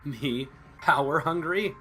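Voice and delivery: indignant disbelief. A narrator's reading. Accused leader answers charge of power hunger, indignant. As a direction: throw the accusation back, offended.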